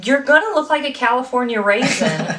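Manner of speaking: exasperated plea. Real, not acted. Host to listeners about sunburn, exasperated plea. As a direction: beg them, stretching out the warning. Scolds listeners into wearing sunscreen.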